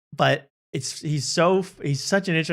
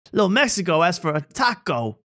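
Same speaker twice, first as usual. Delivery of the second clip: lightly imitated, higher-pitched comic bit; imitating a singer; 4 semitones higher than usual. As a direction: parody the formula and punch the catchphrase. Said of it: "everything's the same. It's like".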